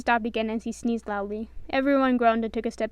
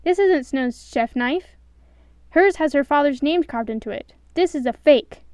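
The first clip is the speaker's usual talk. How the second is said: furious villain; 3 semitones higher, 8 dB louder than usual. A narrator's reading. Boss enraged at fake knife.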